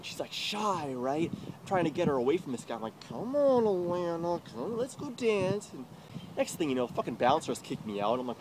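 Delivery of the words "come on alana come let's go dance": calling out. Retold or imitated. Pleading with Alana at club.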